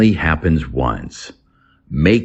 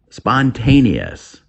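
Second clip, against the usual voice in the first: slow model word; 7 semitones higher, slower than usual. Shown as a demonstration. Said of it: "English vocabulary".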